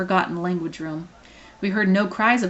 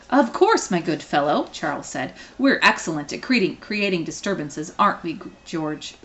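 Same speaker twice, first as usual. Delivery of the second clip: cheerful gentleman. Acted. Charles replies cheerfully.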